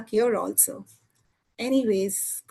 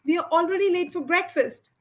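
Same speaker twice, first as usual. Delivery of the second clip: put-on a mom yelling for her late kid, higher; screaming mother; 5 semitones higher than usual. Mom calls son down to breakfast, mild shouted call. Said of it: "his mother screaming".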